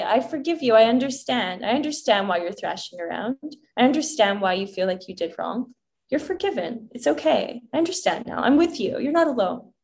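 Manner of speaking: speaking tenderly to a younger self; soothing forgiveness. Pretend. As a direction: comfort a hurt child gently. Comforting inner child, forgiving.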